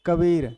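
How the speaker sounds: कबीर slowed, with weight on "beer"; slow demo of stressed कबीर; stress on second syllable. Shown as a demonstration. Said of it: "विशेष बल पड़ गया".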